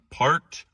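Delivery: parked announced with a lift; new slang word. Shown as a demonstration. Teacher introducing a fake slang word to students. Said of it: "The first one".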